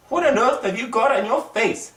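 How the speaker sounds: the teacher gasps at the nose; surprised teacher. Acted.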